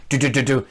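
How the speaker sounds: quick mouthed knocks in an even rhythm; imitated knocking. Knocking on the room door, imitated knocking. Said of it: "knock at the door".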